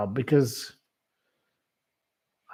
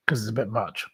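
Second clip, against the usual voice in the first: whispered aside; 3 semitones lower, 5 dB quieter, faster than usual. Real, not acted. Aside while musing about slang.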